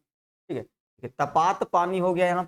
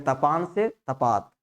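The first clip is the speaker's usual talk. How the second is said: memory aid; slower than usual. Shown as a demonstration. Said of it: "वहीं से याद रखिएगा".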